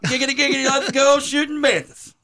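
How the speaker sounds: high excited giggity voice; Quagmire voice. Retold or imitated. Quagmire catchphrase voice.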